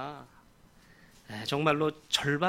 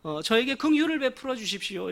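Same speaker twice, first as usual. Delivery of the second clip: pleading call, a little raised; crying out; 3 semitones higher than usual. Acted. Beggar begs Jesus for mercy, raised pleading call. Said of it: "이렇게 고래고래 소리를 질렀습니다".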